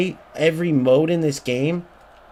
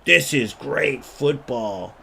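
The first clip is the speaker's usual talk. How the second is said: mocking dimwit fan; 3 semitones lower, slower than usual. Streamer mocking eFootball fans, slow dopey drawl. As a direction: stretch every word of "This is great football" like a clueless fan. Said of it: "eFootball idiots out there that are like".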